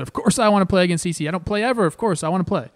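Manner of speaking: quick, loud, eager insistence; blurting out an eager yes, fast. Retold or imitated. Eager reply to the manager.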